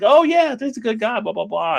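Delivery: high, friendly cop chatter; high-pitched mock familiarity, tailing off; chummy recognition. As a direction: imitate a cop warming to a shared name. Voices cops recognizing a mutual acquaintance.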